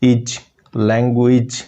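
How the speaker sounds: इज isolated, then लैंग्वेज slowly; slow sound demo. Shown as a demonstration. Teacher isolating the j sound in language. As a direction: sound out इज then the full word. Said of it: "ये जीम के लिए use होता है".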